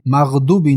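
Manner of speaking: quick مغضوبی with thin d in place of dad; mistaken light d. Shown as a demonstration. Teacher demonstrating wrong مغضوبی, plain d for dad. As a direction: say مغضوبی as maghdubi, with an ordinary d. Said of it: "مغضوبی نه".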